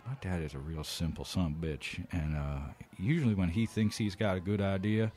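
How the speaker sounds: quiet, muffled behind a hand; hand over mouth. Acted. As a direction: cover your mouth and confide. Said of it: "put my hand over my mouth like this".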